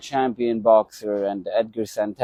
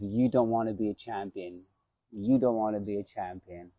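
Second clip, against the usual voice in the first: the way he said it; 5 dB quieter than usual. Retold or imitated. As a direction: say it quietly, the way he once said it. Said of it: "the way he said it".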